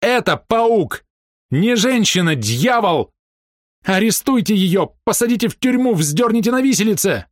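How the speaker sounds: very high, slow, furious cries; frenzied accusation. A narrator's reading. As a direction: denounce them beside yourself with rage. Мондерс яростно обличает Фрэнсис. (исступлённо, гневно обличая)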